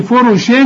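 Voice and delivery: tongue strikes for a clear n after "فرش"; wrong clear noon. Shown as a demonstration. Teacher warns against turning it to noon, "فرش" with full n. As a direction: end "فرش" in a plain held n, "furushin". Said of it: "وتحولها للنون".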